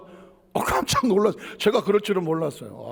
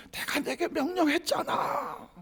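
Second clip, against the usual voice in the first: voice of God; 10 semitones higher, 6 dB quieter, slower than usual. Acted. God speaking, quoted in sermon.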